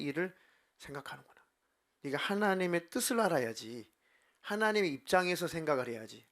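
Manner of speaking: acted stern admonishing; solemn rebuke. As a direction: scold in Jesus's role with stretched key words. Preacher voices Jesus rebuking Peter.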